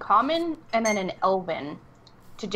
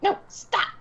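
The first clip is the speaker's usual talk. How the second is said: sharp, raised in-character shout; urgent shout; 12 semitones higher than usual. Pretend. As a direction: call out to stop someone running off. Player acts grabbing a runner.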